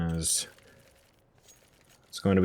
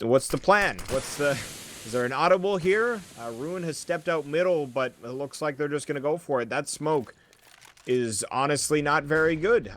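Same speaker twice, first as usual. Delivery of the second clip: higher-pitched esports commentary; live play-by-play; 5 semitones higher than usual. Real, not acted. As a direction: call the action as it unfolds, pitch raised.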